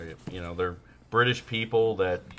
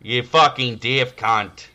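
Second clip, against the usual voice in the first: mock Australian; 4 dB louder, slower than usual. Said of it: "You'd be like a talking dingo".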